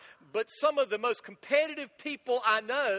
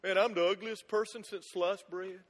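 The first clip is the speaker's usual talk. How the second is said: mock self-pity. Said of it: "look in the mirror and go".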